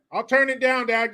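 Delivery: put-on high-pitched child voice; pleading kid. Kid to dad about the doll, high mock-pleading voice.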